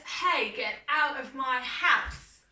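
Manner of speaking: a loud, slow bark of a dog telling mouse off. Acted. Teacher voicing the dog to the children, calling out loud. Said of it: "And then dog says".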